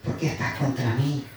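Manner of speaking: low, slow, hushed voice from heaven; a lightly voiced Jesus, drawn out and grave; solemn voice of Jesus. A narrator's reading. Preacher voicing Jesus calling to Saulo, low and slow. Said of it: "oyó una voz que le decía".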